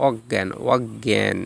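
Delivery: অজ্ঞান as "og-gyan"; careful repeated অজ্ঞান with a doubled g. Shown as a demonstration. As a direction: say অজ্ঞান with g held, then gy. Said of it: "উচ্চারণ গয় গজ ফলা হয়".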